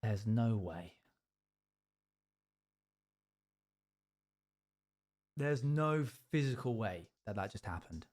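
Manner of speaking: low, subdued study-piece delivery; quiet A-level drama piece; drama monologue. Acted. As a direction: perform it as a hushed, earnest monologue. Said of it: "You can do it as a monologue".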